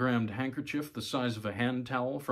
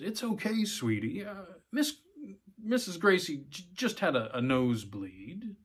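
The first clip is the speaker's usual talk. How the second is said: higher-pitched, halting reassurance; comforting father; 7 semitones higher than usual. A narrator's reading. Father plays down nosebleed to daughter, comforting. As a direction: soothe a small child, searching for words.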